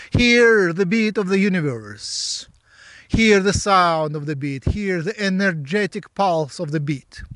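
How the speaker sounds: measured, incantatory meditation guiding; guided meditation. Real, not acted. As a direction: draw out each invitation to listen, like an incantation.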